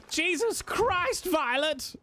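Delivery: hammed-up slogan shout; mock grand announcement. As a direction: present the name like a big reveal. Announcing the t-shirt name.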